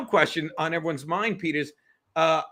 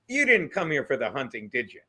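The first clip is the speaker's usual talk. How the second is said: sly bear punchline; 6 semitones lower than usual. Retold or imitated. Bear's punchline, sly and low.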